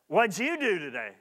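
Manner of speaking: flat, dismissive asking; curt question. Shown as a demonstration. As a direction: ask it bluntly, without interest. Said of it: "you'll receive another type of answer".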